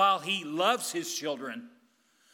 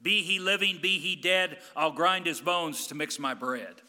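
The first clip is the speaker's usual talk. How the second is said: giant voice; 2 semitones higher, 4 dB louder than usual. Retold or imitated. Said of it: "the giant says".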